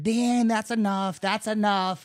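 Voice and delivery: high, loud retold shout; imitated dad yelling. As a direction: call out to break up a fight, as dad. Voicing dad breaking up the fight.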